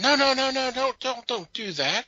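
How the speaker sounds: high, loud hurried protest; mock panic at the home assistant; panicked no no no. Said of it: "of course he's going".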